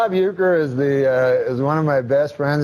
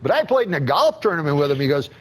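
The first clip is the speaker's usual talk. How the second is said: lightly raised folksy announcer voice; Uecker impression; 4 semitones higher than usual. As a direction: tell it like a chatty old ballplayer. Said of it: "I just love those Euchre impressions".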